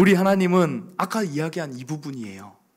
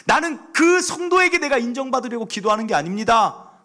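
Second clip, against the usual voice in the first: loud, raised preaching voice; fervent preaching; 7 semitones higher, 5 dB louder than usual. Acted. Pastor telling the congregation about his dawn prayers, preaching fervently. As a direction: preach it out with conviction.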